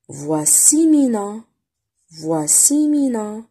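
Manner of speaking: "Voici Mina" slow and clear; slow teacher model; slow reading model. Shown as a demonstration. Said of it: "reading model for pupils".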